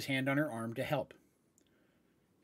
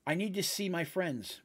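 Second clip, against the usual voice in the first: flatly; 4 semitones higher than usual. Acted. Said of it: "Maeve said flatly".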